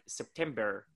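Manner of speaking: slow American-accented "September" with a sounded final R; mock American accent, R held on "September"; American pronunciation demo. Shown as a demonstration. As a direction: imitate an American saying "September", ending in -brr. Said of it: "when you guys pronounce your months".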